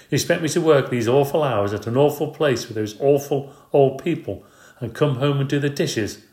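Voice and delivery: wife yelling about awful hours. Acted. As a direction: let the whole grievance out. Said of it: "yelling at Mister Payne".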